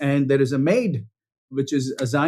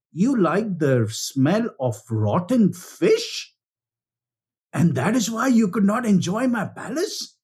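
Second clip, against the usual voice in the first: sarcastic. Retold or imitated. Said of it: "he goes sarcastically".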